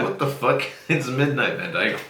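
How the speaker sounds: loud mock outrage. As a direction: blurt it out loud through a laugh. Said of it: "And I'm like".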